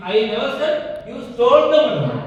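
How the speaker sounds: "the" given the weight, sentence very slow; stress on the. Shown as a demonstration. Teacher models stressing "the". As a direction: lean on the little word "the". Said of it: "the அப்படிங்கிறது வந்து emphasise".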